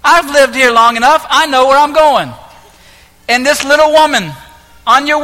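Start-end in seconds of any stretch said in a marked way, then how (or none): 0.0-2.3 louder stubborn retort to the GPS; mock a stubborn driver arguing; stubborn insistence. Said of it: "this moment where you say".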